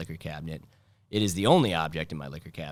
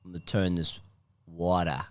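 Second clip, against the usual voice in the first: mock Boston accent; 4 dB louder, slower than usual. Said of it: "Boston accent".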